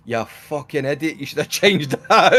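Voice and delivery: mock angry Scotsman yelling; hammed-up Scottish insult; angry Scottish alert. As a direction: bark it like an angry Scot. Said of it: "instead of saying".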